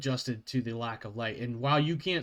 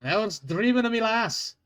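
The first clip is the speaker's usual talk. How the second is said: dwarf guard scolding; 4 semitones higher than usual. Acted.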